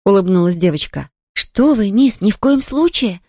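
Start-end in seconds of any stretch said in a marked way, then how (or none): 1.3-3.2 a mock alarmed exclamation, a bit higher and slower; Nancy hastily protesting, lightly voiced; exclaiming. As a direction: maid cries out to stop the girl, mild alarm. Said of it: "воскликнула Нэнси".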